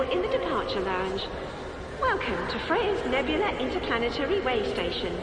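calm PA announcement voice; smooth space station announcer; airport announcement. Acted. Way station public address.

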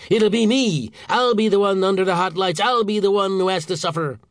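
high, loud self-pitying outrage; aggrieved rant. A narrator's reading. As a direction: wail that you are the victim. Boss rants about his ordeal.

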